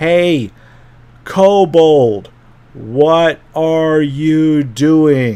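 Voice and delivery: booming, loud, very drawn-out and slow. Recounting how he talks to a kobold: mock-loud, slow, demanding. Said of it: "he speaks loudly, slowly, and, and demandingly".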